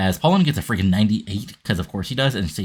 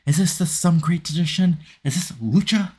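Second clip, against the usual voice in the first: mocking Palumbo; 9 semitones higher than usual. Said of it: "throws him around and saying".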